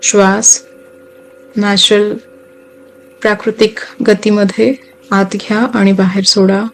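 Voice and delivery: unhurried meditation guide, long pauses between phrases; guided meditation. Acted. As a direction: guide listeners gently into relaxation, phrase by phrase.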